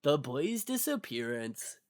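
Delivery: slow, measured mock documentary voice; mystery-video narrator. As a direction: lightly parody a conspiracy-video narrator. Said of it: "It'd be like".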